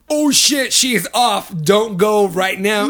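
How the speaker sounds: retold alarm, half laughing; mock panic. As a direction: mimic the panicked thought. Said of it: "the pain came from".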